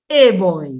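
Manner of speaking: put-on "a boy" with the letter-name ay for "a"; Portsmouth pronunciation. Shown as a demonstration. Linguist shows town's way, Portsmouth pronunciation. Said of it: "In Portsmouth, we say".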